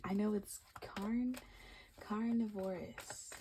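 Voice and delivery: "carnivorous" said slowly, syllable by syllable; slow deliberate "carnivorous"; careful pronunciation. Real, not acted. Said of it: "I think that's how you say it".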